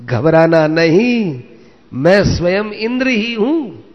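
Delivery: lifted, high voice without real laughter; laughing reassurance. A narrator's reading. Indra reveals himself to Arjun, mildly laughing reassurance. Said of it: "और हंसते हुए कहा".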